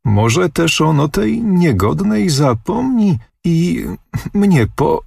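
put-on a girl squeaking with embarrassment and cutting off; thin squeak. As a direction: squeak the words out shyly and stop short. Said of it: "pisnęła cieniuteczką".

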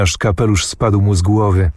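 plain reading voice

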